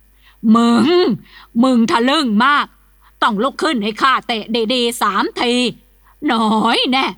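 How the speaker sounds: grind it out through clenched teeth; old master advancing on his son-in-law, seething threat; teeth-grinding rage. Acted. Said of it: "ขบเคี้ยวเคี้ยวฟันกรอดกรอด".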